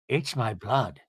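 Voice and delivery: low, underplayed dramatic line; lightly mimicked solemn declaration; Meredith imitation. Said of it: "I like how she goe".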